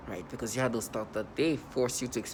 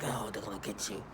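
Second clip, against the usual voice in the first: softer, lower mocking mean voice; 4 semitones lower, 9 dB quieter than usual. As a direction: imitate a mean taunt, held low. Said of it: "they try to create this mean voice".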